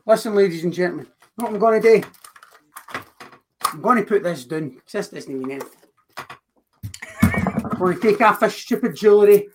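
fired-up wrestling trash talk; rally the crowd like a heel; wrestling promo. Acted. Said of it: "Cutting a promo".

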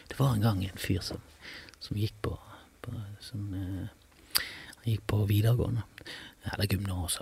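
very soft, halting mock story opening; hushed, faltering storytelling. Party guest starting a story to silent room, acted hushed faltering. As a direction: trail into a barely audible, hesitant murmur.

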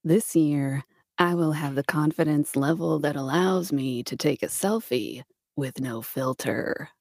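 a hint of Jack Nicholson drawling it out; Jack Nicholson impression. Reading a selfie resolution to her friend as Jack Nicholson. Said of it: "read it as Jack Nicholson".

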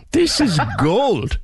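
laughing. Real, not acted. Host still laughing.

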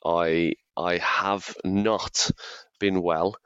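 hoarse sick voice; croaky voice. Real, not acted. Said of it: "as you can hear by my croaky voice".

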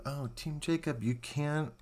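high, loud, pleading cry at the screen; high excited protest; excited plea. Real, not acted. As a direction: beg Jacob not to do it, up high.

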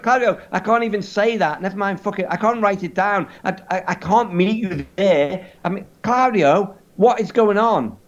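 high-pitched exasperated pleading; mock panic. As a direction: protest helplessly, voice pushed up high. Acted panicked protest to friend.

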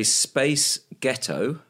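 slow, drawn-out American "Space Ghetto"; a light American twang; American accent. Shown as a demonstration. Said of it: "in a slightly American".

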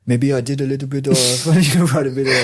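lightly put-on French accent; mock French accent. Shown as a demonstration. Podcast guest admitting drifting accents abroad, jokey French accent. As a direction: slip jokily into a French accent, laughing. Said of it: "Again, quite French".

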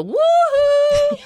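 high, loud sing-song call; calling out like mama; a bright mock call for help; mama's woo-hoo. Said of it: "she'd go".

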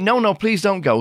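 high-pitched mock plea; imitated pleading. Acted maid begging guest to stay.

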